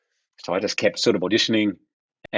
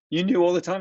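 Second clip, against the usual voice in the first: incredulous; 10 semitones higher than usual. Retold or imitated. Stunned by dad's reveal.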